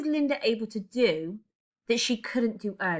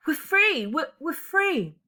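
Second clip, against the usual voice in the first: much higher, louder, slow sobbing cry; fuller sobbing; 8 semitones higher, 4 dB louder, slower than usual. Acted. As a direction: release it all, slowly. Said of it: "sobbing, more fully released".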